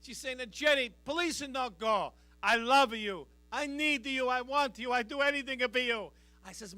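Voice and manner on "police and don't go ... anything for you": mildly hammed-up pleading in an Italian accent; mock crying mother. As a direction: imitate a tearful Italian mama begging. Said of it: "She's crying".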